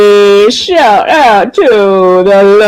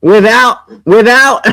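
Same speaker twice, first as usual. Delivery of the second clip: trying to repeat the word but cracking up; can't keep a straight face; breaking into laughter; 4 semitones higher than usual. Real, not acted. Streamer trying to quote her but laughing too hard. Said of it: "I can't even say that with a straight face".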